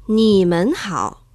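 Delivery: slow, careful Mandarin "Ni men hao"; "Ni men hao" langsam und deutlich vorsprechen; Chinese greeting. Shown as a demonstration. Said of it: "podemos decir así".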